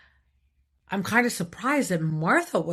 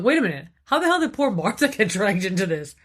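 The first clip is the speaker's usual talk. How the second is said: incredulous thought; 2 semitones higher, 6 dB louder than usual. Retold or imitated. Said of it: "I'm thinking in my head".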